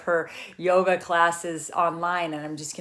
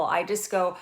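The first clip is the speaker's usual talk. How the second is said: ordinary talk, nothing marked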